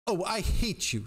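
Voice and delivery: high, drawn-out hateful cry; restrained scream. A narrator's reading. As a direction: cry it high and slow, without real volume. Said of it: "she screamed".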